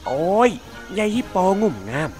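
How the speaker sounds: angry yell. Acted. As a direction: shout at her to get off, hurt and annoyed. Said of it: "เสียงร้องตะโกนออกมาว่า".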